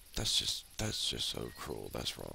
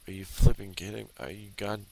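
high-pitched, incredulous protest; outraged disbelief; 7 semitones higher, 4 dB louder than usual. Real, not acted. Player learning about skill points, outraged disbelief. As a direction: burst out loud and high, then keep questioning it.

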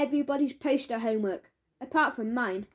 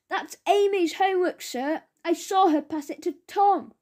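telling tales; 6 semitones higher, 4 dB louder than usual. Acted. Marcus telling on Amy.

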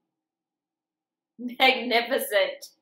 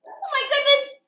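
high, louder delighted gasp; surprised; 6 dB louder, faster than usual. Real, not acted. Teacher after the story, high delighted exclamation.

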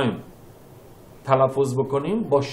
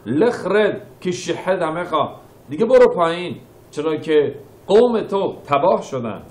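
God's stern, louder order to go down; a touch of divine anger, commanding; higher, louder angry command from God; 4 semitones higher, 3 dB louder than usual. Acted. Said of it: "چرا خداوند تا این حد خشمگین شده".

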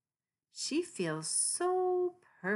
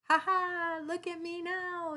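high, loud triumphant cry; yelled triumph; 13 semitones higher, 4 dB louder than usual. Acted. Kitty yells to her friends in triumph. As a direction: crow in delight at last. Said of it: "yells Kitty".

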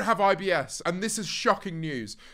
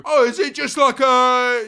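high, loud mimicry of a baffled drinker; mock disbelief, pitched up and pushy; incredulous drinker; 6 semitones higher, 7 dB louder than usual. Drinkers quizzing a man who turned down alcohol, mock incredulous.

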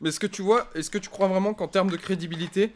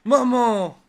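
wailing for mom; 5 semitones higher, 8 dB louder than usual. Pretend. Calling mom in distress.

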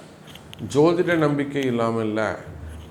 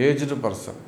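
normal talking voice

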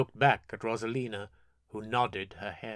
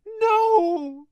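very high loud cry; cried out; 10 dB louder than usual. Acted. Gale shielding the pyre from her brother, loud high cry. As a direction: scream it in refusal. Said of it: "Gale cried out".

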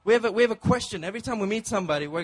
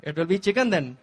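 steward; 5 dB louder than usual. Retold or imitated. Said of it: "He said".

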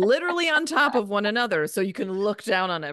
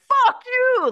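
higher, louder angry shout; 8 dB louder than usual. Retold or imitated. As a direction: yell it out. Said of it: "I'm like".

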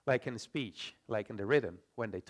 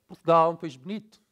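fast, louder European Portuguese, vowels swallowed; European Portuguese accent; 3 semitones higher, 7 dB louder, faster than usual. Shown as a demonstration. Teacher contrasting with Brazil, fast reduced European Portuguese accent. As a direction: read it like someone from Portugal, syllables vanishing. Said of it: "A Portuguese would read this like".

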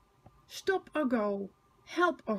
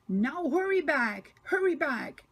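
high, slightly louder urging; puffing coaches; 4 semitones higher, 3 dB louder than usual. A narrator's reading. Annie and Clarabel urging Thomas home. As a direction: puff it out urgently. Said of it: "puff Annie and Clarabel".

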